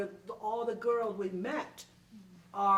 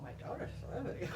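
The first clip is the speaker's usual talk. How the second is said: laughing; 5 dB quieter, much faster than usual. Retold or imitated. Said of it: "I said".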